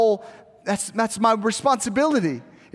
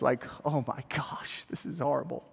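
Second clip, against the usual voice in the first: mock despair; 6 semitones lower, 10 dB quieter than usual. Teen's mock despair over ironing.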